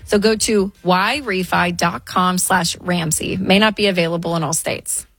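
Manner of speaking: measured, polished ad read; radio host's sponsor message. Acted. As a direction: read the sponsor copy clearly, easing through the details.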